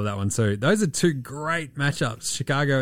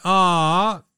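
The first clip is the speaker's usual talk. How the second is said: mock outburst; 10 semitones higher, 3 dB louder, slower than usual. Angry outburst in skit.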